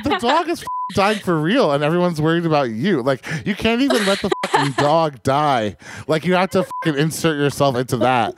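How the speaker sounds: high, incredulous exasperation; exasperated rant. Retold or imitated. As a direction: let her have it, outraged and high. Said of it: "And I was like".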